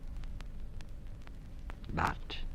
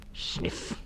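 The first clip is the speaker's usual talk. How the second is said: sniffing; 8 dB quieter than usual. Acted. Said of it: "went the stoat".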